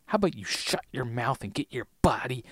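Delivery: lightly voiced tough order; a hint of a hard-nosed leader; Ana Lucia. Ana Lucia telling Michael to shut up and move, lightly voiced. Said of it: "I think I do a really good Ana Lucia".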